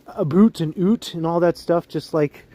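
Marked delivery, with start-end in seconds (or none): 0.1-0.6 "a boot" in a light mock Canadian accent, said like "a boot"; a quick imitation of the Canadian "about", sounding as "a boot"; teasing a Canadian accent with "a boot". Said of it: "He says". 0.8-1.1 "oot" in a light mock Canadian accent, with a rounded "oo" vowel; a brief imitation of the Canadian "out", said as "oot"; a playful Canadian "oot". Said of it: "He says".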